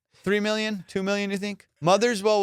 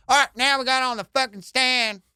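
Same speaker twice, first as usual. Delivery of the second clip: high, uncouth mock auctioneer; wrong-guy auctioneer; 7 semitones higher, 3 dB louder than usual. Comic showing who can't sell fine art, crude auctioneer voice. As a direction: call it like the wrong man for a fancy auction. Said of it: "You can't have a guy go".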